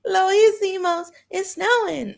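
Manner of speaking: high, loud, crying with joy; squealing through happy tears; tearful joy. Real, not acted. Excited at the first snow, crying and shouting. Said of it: "Oh, I'm not crying".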